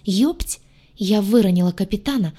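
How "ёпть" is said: startled, horrified yelp; terrified exclamation. Acted. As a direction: blurt it out in sudden fear. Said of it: "исполненное ужаса". (полный ужаса возглас)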